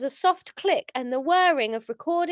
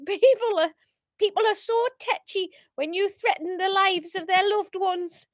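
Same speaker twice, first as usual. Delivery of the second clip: higher, hammed-up attempt at a Geordie accent; high-pitched Geordie; 6 semitones higher, 4 dB louder than usual. Leader gloating about Dean the chef, high-pitched Geordie. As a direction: push your bad Geordie up high. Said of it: "have to do it high pitched".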